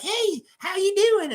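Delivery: put-on high Southern hick kid; mock hick accent. Little Southern kid greets his game partner, mock hick accent. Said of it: "He had the most hick accent".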